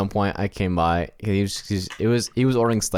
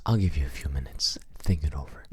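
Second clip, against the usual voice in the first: soft, hushed mock-polite whisper; whisper in the ear; 4 semitones lower, 5 dB quieter than usual. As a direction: whisper it discreetly into someone's ear. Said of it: "Whisper in his ear".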